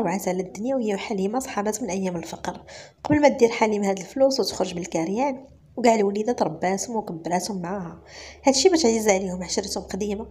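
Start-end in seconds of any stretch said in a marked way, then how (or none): none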